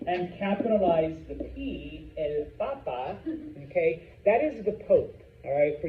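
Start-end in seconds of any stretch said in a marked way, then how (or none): 2.2-3.2 "papa" as PA-pa, short final A; stress on first syllable. Shown as a demonstration. Teacher explains word for the Pope, "papa" stressed PA-pa. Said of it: "if you make your potato masculine".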